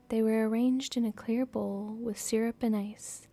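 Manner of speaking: soft storytelling read; story narration. A narrator's reading. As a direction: read the story gently aloud. Reading novel aloud.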